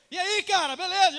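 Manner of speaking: booming, high-pitched shouted greeting; hammed-up loud-mouth hello; loud talker. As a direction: greet a friend far too loudly. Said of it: "Irmãos que falam alto".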